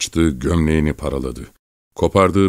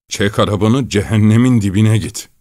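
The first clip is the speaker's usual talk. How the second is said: higher, louder outburst; furious shout; 4 semitones higher, 5 dB louder than usual. A narrator's reading. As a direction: yell it, building in fury. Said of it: "diye bağırarak doğrulup oturdu".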